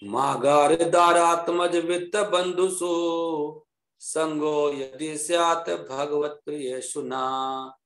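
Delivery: slow Sanskrit chanting; verse recitation. Acted. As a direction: recite the shloka slowly.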